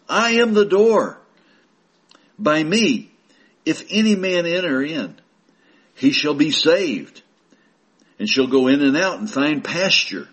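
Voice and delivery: preaching scripture. Acted. Preacher reading Jesus' words aloud, proclaiming. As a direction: proclaim the verse to the flock.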